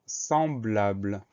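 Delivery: slow, carefully drawn-out word; dictation word. Shown as a demonstration. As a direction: announce the word slowly for spelling. Teacher announces a new dictation word.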